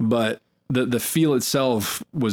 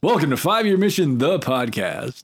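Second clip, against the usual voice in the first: vintage cartoon voice; 4 semitones higher than usual. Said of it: "Do your cartoon voice".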